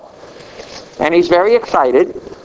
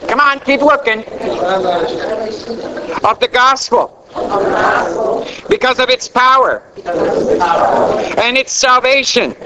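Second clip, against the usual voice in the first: short declarations pitched up for the congregation to echo; preaching call-and-response; 4 semitones higher than usual. Real, not acted. Preacher to congregation repeating after him, rousing call-and-response. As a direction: lead the church, phrase by phrase.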